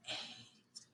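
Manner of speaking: breathy whispered number. Shown as a demonstration. Teacher whispering every other number in a counting drill, whispered. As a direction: whisper it, no voice at all. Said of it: "Now we're gonna whisper every number".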